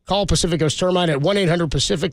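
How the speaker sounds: even, clear sponsor read; radio ad read. Acted. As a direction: read the sponsor spot like an announcer.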